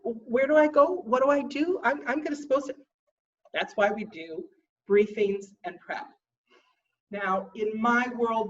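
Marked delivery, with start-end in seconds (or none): 0.0-2.8 anxious newcomer. Retold or imitated. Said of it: "new people to contests are always like".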